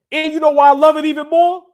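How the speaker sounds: excited. Real, not acted. Building up to the joke.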